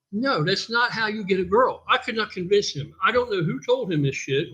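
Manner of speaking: usual speaking voice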